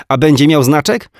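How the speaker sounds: put-on high, chirpy little boy; small boy reporting his cartoon to his mum; child voice. A narrator's reading. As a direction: tell it like a proud small kid. Small boy asking eagerly.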